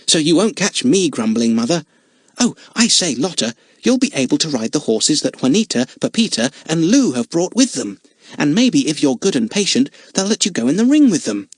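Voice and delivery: put-on bright, eager young boy voice; excited boy. Jimmy chatters excitedly.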